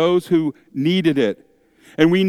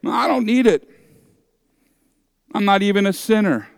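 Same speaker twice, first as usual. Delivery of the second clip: smug dismissal; 5 semitones higher, faster than usual. Retold or imitated. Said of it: "Some might even say".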